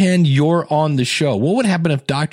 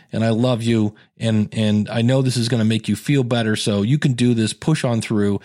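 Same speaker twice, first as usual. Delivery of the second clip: lower, mild-voiced husband encouraging his wife; supportive husband's message; 4 semitones lower than usual. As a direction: play a husband recording a sweet pep talk, pitched down. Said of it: "they had their husbands record a little".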